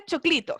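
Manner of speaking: "choclito" said as chok-LEE-to, full final o; "choclito" in plain Chilean syllables, stressed on CLI; Spanish mnemonic word. Shown as a demonstration. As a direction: teach "choclito" with a clear Spanish ending. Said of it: "chocolate en inglés".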